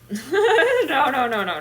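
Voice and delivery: laughing through a string of no's. Real, not acted. Laughing at someone's love potion plans. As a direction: laugh and wave it off, no no no. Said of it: "laughing refusal".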